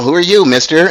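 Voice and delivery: a hint of a little scolding voice; little Stacy voice. Student retelling Stacy's phone grab to friends, lightly mimicked little voice. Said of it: "in that little Stacy voice".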